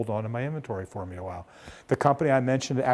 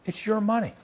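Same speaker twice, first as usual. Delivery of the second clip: indignant; 8 semitones higher than usual. Retold or imitated. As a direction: stress on "money", voice pitched well up. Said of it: "you may not want to have quite that tone".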